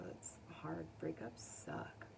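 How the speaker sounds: quiet whispered commiseration; soft sympathy. Real, not acted. Reader commiserating with dumped viewers, hushed. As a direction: drop to a hush, sharing the pain.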